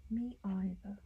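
mock London "Me either" with either as "eye-ther"; light British "Me either" to a cohost; British accent. Shown as a demonstration. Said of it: "as they say in London".

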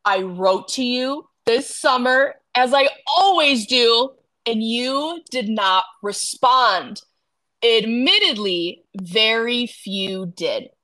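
measured, spaced-out reading of a period line; slow, deliberate quote. Retold or imitated. Podcast host quoting Colin's complaint to friend, slow and deliberate. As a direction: quote it slowly, leaning on key words.

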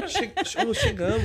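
high, bright stammered call of arrival; wake-up call. Shown as a demonstration. Driver announcing arrival to a sleeping rider, high call. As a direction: sing out the arrival to rouse them. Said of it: "mas eu falo do mesmo jeito".

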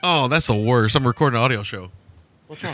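talking through hiccups; hiccuping between words. Real, not acted. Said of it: "I got the hiccups all of a sudden".

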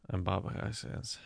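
soft, low-key Cockney; a hint of Cockney; understated Cockney impression; Cockney accent.

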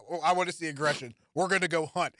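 deadpan imitation of a coach; straight-faced. Retelling the coach's pregame interview, straight-faced. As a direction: quote it matter-of-factly, no reaction. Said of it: "says it with the most straight face".

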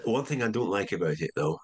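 lightly imitated Scottish accent. Comedy head qualifying his approval to writers, imitated Scottish accent. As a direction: raise an objection with a hint of Scots. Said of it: "I was Scottish, by the way".

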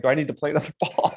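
laughing through the question, fast. Retold or imitated. Retelling his clueless question to the golfer, laughing. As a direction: ask it and break into a laugh. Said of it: "I was like".

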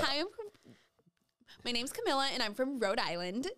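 a touch of beauty pageant Rhode Island; pageant stage voice. Shown as a demonstration. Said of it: "like you're on a fucking pageant stage".

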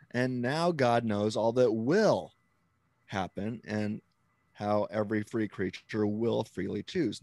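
WILL held long before a pause; slow down and weight "will"; emphatic, drawn-out "will"; stress on WILL. Shown as a demonstration. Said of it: "that I'm using now is will".

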